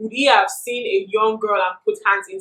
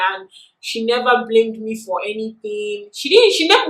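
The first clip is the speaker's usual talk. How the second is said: ordinary talk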